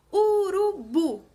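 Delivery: Urubu slow and loud, landing on BU; teacher's loud demo of Urubu, BU set apart; stress on final BU. Shown as a demonstration. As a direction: stretch Urubu by syllables and hit the last, BU. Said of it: "Sílaba tônica da palavra urubu é o bu".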